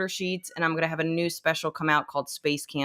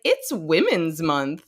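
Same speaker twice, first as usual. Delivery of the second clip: dry mock realization; much slower than usual. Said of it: "I was like".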